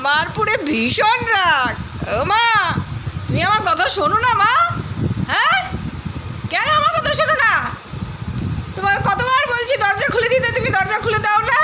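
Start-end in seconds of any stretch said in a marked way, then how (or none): 2.1-11.6 voicing the dog. Voicing dog pleading with owner.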